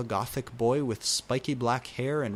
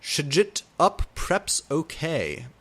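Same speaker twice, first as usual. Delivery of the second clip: snotty dismissal; 4 semitones higher, 4 dB louder than usual. A narrator's reading. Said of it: "Author's note".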